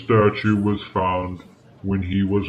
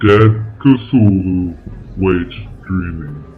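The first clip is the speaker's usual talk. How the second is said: ominous recitation; 7 dB louder than usual. Acted. Quoting the cult phrase.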